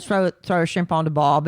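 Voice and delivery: hammed-up Aussie catchphrase; Australian accent. Co-host showing off the lady's accent, mock Australian. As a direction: put on a stock Australian accent. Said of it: "That was Australian".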